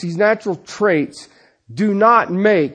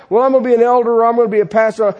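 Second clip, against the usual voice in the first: fast, tossed-off mock claim; quick dismissive quote; rattled-off quote; much faster than usual. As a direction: rush through it as someone else's words. Imagined aspirant quoted, rattled off.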